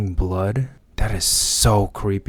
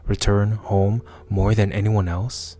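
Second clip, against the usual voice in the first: measured monologue with pauses between phrases; lightly acted dramatic reading; story narration. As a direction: read out an inner confession, understated. Reads the character's monologue.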